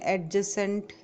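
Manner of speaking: "एडजेसेंट" with the D sounded; common mispronunciation. Shown as a demonstration. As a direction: say "एडजेसेंट" as ad-jacent, D before the J. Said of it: "इसमें डी silent होता है".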